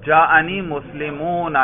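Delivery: مسلمون slowly, with a long "oo", muslimoon; waw ending. Shown as a demonstration. Teacher showing raf' as waw in the plural, waw ending. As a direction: draw out the final oo of مسلمون. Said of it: "واو کی صورت میں".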